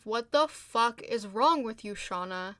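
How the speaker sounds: loud, indignant outburst; appalled and emphatic; outraged reaction. Real, not acted. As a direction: scold her in disbelief, stressing the swearing. Outraged reaction to Shauna's suggestion.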